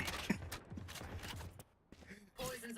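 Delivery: high excited laughing; laughing exclamation. Real, not acted. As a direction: laugh through the shout. Caster cracks up at play.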